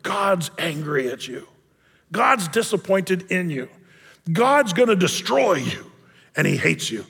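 slow, measured pronouncement of doom; understated wrathful tone; mock angry God. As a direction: hand down a stern verdict, word by word. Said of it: "they hear a tone of".

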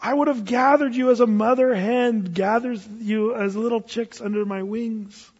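a yearning lament over Israel, like a mother hen; lightly voiced Jesus longing to gather his people; tender Jesus. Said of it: "You hear it in Jesus' voice".

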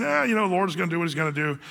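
fast, careless shrugging tone; passive shrug. Retold or imitated. Preacher mocking passive believers, a quick careless shrug. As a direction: toss it off like it doesn't matter. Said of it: "just kinda saying".

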